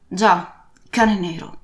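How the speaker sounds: put-on old captain's gruff falling reply; lightly voiced old sailor's answer; captain confirming. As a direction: confirm it grimly.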